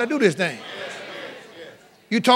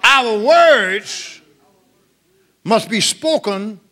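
emphatic declaration; 2 semitones higher, 4 dB louder, much slower than usual. Real, not acted. Preacher declaims key teaching point.

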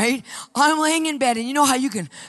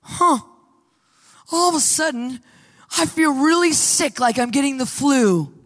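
sudden sickness. Retold or imitated. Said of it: "his entire countenance changes".

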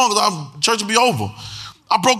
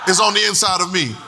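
louder congregation repeat; louder declaration. Shown as a demonstration. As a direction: call it out with more force. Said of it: "Say it again".

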